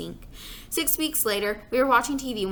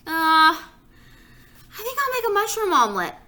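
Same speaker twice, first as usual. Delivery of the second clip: father's voice; 9 semitones higher, 6 dB louder, slower than usual. Acted. Father voiced by young reader.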